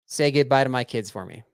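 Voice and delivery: slow, drawn-out mock dying plea; milk each word like a melodramatic victim; hammed-up dying caller. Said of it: "and you're gonna say what?".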